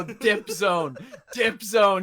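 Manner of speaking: high, restrained imitation of yelling; mock scream. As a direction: imitate a drunk friend yelling, not full out. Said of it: "He was screaming".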